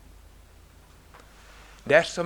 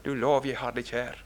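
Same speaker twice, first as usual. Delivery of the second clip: "Du lov, jeg har deg kjær" again, lower and softer, leaning on "lov"; soft repeat; 5 semitones lower, 4 dB quieter than usual. Shown as a demonstration. Preacher repeating the psalm line to himself, softly and tenderly.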